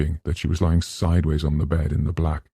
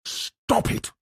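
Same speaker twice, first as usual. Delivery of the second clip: shout; 4 dB quieter than usual. Acted. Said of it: "she shouted".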